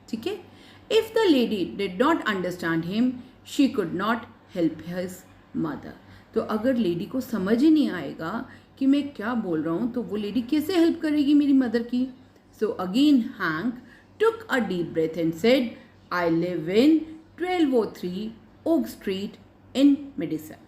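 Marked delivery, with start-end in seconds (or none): 0.9-5.9 put-on very slow, measured reading for young learners; story read-aloud. Reads story aloud to pupils. 12.6-20.6 put-on very slow, measured reading for young learners; story read-aloud. Reads story aloud to pupils.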